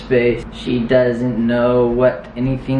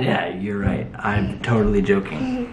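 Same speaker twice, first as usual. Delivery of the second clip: whispering; 4 semitones lower, 4 dB quieter than usual. Real, not acted. Admitting the joke.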